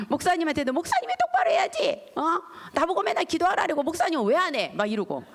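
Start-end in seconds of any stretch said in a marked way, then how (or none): 0.7-4.7 high, loud nagging rebuke; scolding. Retold or imitated. Wife scolding her husband to pray, high and loud. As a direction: tell him off sharply.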